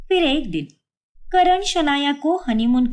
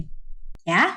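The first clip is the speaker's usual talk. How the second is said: shocked gasp; 8 semitones lower, 4 dB quieter, much slower than usual. Acted. Vipul shocked at week-long trip.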